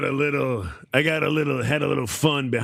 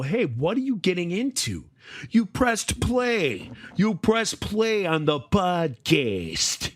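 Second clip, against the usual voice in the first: mock podcast intro; 6 semitones higher, slower than usual.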